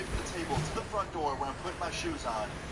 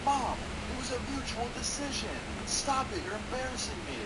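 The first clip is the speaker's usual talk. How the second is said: retold yell; 9 semitones higher than usual. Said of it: "my ex yells at her".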